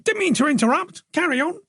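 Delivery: a bluff, friendly husband glad-handing a guest; hearty host Joe. Acted.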